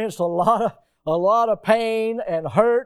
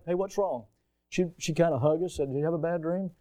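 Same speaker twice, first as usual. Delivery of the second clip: soft, hushed motherly comfort; tender mom; 6 dB quieter than usual. Retold or imitated. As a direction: soothe a scared child at night. Mom comforting child at night.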